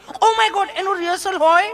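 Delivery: high, giggly city lady voice; mock shocked tourist. Tourist mocked for being shocked by rehearsal, high. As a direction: gasp at the idea like a fussy visitor.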